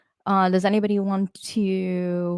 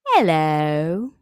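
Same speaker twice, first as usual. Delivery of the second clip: drawn-out meowed hello, swooping down and back up; talking-cat meow; 5 dB louder, much slower than usual. Retold or imitated. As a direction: meow it like a cat attempting English. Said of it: "That's exactly what his meows sound like".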